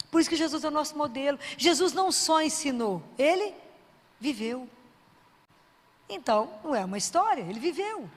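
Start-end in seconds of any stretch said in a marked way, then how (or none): none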